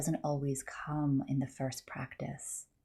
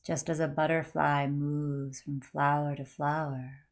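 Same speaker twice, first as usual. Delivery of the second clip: calm, unhurried meditation guide; measured yoga nidra guiding voice; guided meditation. Acted. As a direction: lead the listener gently inward, phrase by phrase.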